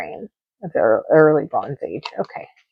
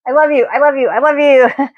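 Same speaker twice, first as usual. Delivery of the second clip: higher, affectionate repeated I love you; sign-off I love yous; 8 semitones higher, 3 dB louder than usual. Retold or imitated. Quoting her own stream sign-off to viewers, higher and affectionate. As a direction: beam it out like a goodbye to every viewer. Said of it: "Guess what I say?".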